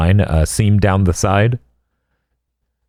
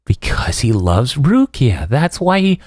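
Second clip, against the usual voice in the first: imitating Orihime; 3 semitones higher, slower than usual.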